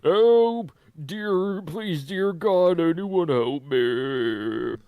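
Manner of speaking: desperate scream, very high and loud. Acted. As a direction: scream for help, slow and frantic. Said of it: "He suddenly started screaming".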